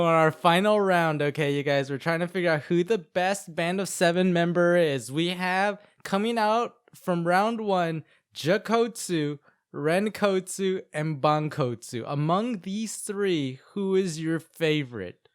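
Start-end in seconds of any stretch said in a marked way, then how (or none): 5.1-15.3 slow, drawn-out host voice; announcer. Acted. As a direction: build suspense like a show host. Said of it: "announcing finalists".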